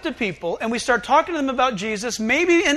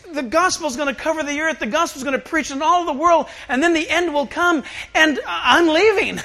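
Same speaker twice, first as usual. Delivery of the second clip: higher-pitched, building pep talk; enthusiastic send-off; 4 semitones higher than usual. Acted. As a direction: pile up the grand promises, then slip in the news. Acts Jesus hyping mission, then leaving.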